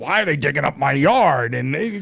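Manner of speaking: put-on loud, grumpy old man voice. Retelling own past complaint about the yard being dug: imitating a curmudgeonly old man. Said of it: "I was originally the curmudgeoned old man".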